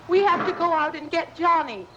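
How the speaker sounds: normal talking voice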